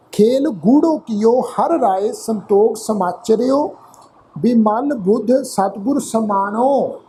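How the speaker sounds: slow, drawn-out chanted reading of the verse; slow scripture recitation. Acted. Teacher reciting scripture to the congregation, slow and chanted. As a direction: intone each line slowly like a hymn.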